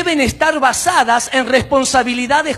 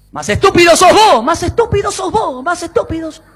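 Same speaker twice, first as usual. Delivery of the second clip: high yell fading into echo; yelled retort echoing; 6 semitones higher, 3 dB louder than usual. Acted. Boy argues with his own echo, yelling. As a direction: shout back, then let each repeat fade.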